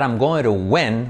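I'm going to win with win said as wen; open e in win. Shown as a demonstration. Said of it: "la E hay que hacerla más abierta".

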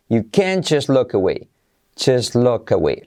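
"can't" and "just" without their final T; native pronunciation. Shown as a demonstration. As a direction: run "can't just look away" together, dropping both Ts. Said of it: "cómo la pronunciaría un nativo". (pronunciación nativa, "can't" y "just" sin T)

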